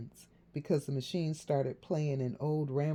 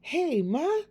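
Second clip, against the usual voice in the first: cool and calm; 12 semitones higher, 6 dB louder than usual. A narrator's reading. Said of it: "trying to sound cool and calm".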